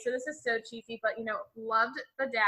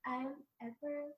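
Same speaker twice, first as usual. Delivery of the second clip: slow, soft mock self-introduction; stiff Edward line; 2 semitones higher, 12 dB quieter, slower than usual. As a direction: drag it out like a stiff, awkward vampire. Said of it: "he's like".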